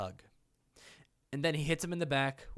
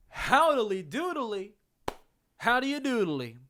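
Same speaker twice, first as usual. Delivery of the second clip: goofy cartoon neighbour greeting; 9 semitones higher, 5 dB louder than usual. Jokey video intro greeting.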